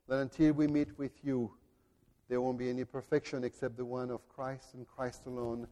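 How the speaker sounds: hushed pastoral prayer; closing prayer. Acted. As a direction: pray quietly to the Father.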